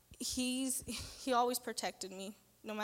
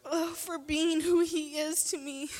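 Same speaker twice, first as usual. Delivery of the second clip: choked-up, higher voice; tearful thanks; 6 semitones higher than usual. Real, not acted. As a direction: thank God through tears. Tearful thanks opening a testimony.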